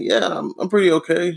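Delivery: high, flat "I'm pretty okay"; deadpan. Retold or imitated. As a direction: answer with no enthusiasm. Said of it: "I'm pretty deadpan at work".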